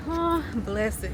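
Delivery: slow, drawn-out pitying "oh"; lightly voiced heartfelt sympathy; sincere sympathy. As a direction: imitate someone tenderly feeling for you. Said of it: "I think she meant it in".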